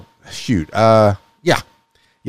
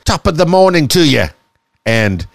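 mock Irish accent; 4 semitones higher than usual. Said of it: "Now I'm starting to sound like a pirate".

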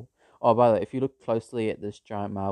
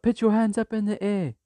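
higher, louder mock police order; police command; 12 semitones higher, 6 dB louder than usual. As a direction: bark it like a cop. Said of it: "they're like".

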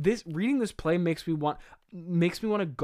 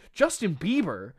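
incredulous; 3 semitones higher, 3 dB louder than usual. Real, not acted. Repeats the name in disbelief.

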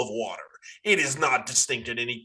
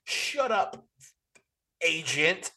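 emphatic no; 7 semitones higher, slower than usual. Real, not acted. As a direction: shut it down hard. Arguing with the FBI agent.

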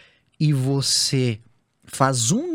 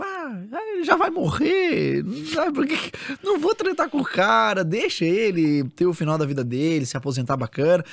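high indulgent voice; 6 semitones higher than usual. Retold or imitated. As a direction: humor the old man, pitched high. Voicing scientists' indulgent thought.

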